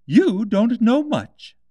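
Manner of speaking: slow, high, lofty duchess voice; haughty Duchess. A narrator's reading. The Duchess loftily tells Alice about the cat, slow and high. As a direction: drawl it out like a superior duchess.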